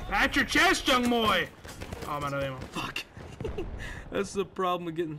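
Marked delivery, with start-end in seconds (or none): 0.1-1.5 hype shout. Real, not acted. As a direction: yell it out like a hype man after a kill. Hyped catchphrase after a kill.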